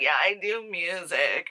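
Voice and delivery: lightly voiced mock character; put-on girlfriend voice. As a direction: imitate her with a hint of a silly voice. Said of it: "I don't know why I'm giving her that voice".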